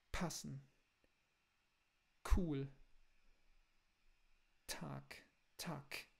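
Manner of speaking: crisp, hard German T, K and P; hard consonants. Shown as a demonstration. Teacher shows hard German stops to Brazilians. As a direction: snap the stops in "passen", "cool", "Tag". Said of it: "no final das palavras".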